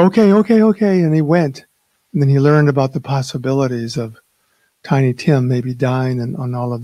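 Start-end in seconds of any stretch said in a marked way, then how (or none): 0.0-1.0 frightened Scrooge. Retold or imitated. Scrooge frightened by second spirit.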